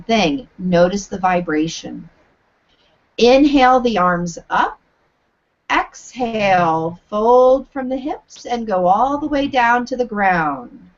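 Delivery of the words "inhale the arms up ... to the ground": projected teaching voice. Shown as a demonstration. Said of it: "use a teaching voice where you're trying to project your sound".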